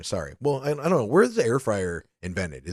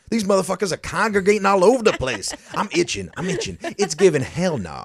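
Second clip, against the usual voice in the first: higher, louder horrified guest voice; freaked-out guest; 9 semitones higher, 4 dB louder than usual. Retold or imitated. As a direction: play the itchy panicked guest. Imitating the itchy guests.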